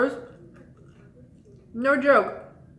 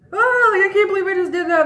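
much higher and louder, a squeal of disbelief; giddy panic; 10 semitones higher, 7 dB louder than usual. Retold or imitated. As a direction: freak out happily at what you just did. Freaking out after kissing him.

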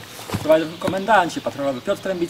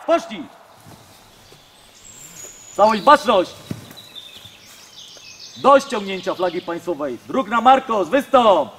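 drill sergeant. Real, not acted. Commands at flag lowering.

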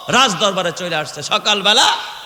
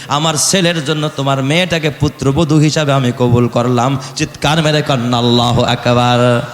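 chanting waz sermon delivery; melodic preaching. Acted. Preacher telling the story of Omar to a congregation, melodic preaching.

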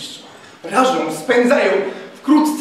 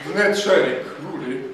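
ordinary delivery, nothing marked

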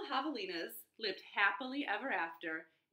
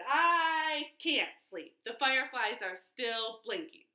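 whiny gecko; 2 semitones higher, 5 dB louder than usual. Acted. Gecko whining.

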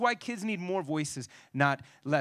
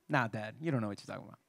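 low, quick, softer brush-off; dismissive son; 10 semitones lower, 6 dB quieter, much faster than usual. Retold or imitated. Son waving off his Super Bowl coach dad, quick low dismissive. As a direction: toss it off like a know-it-all teen.

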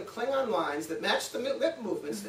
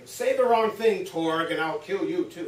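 mock angry threat; 5 dB louder than usual. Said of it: "he's angry about something".

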